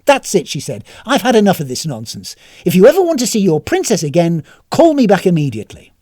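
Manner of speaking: angry threat. Acted. Tanisan loses temper, threatens.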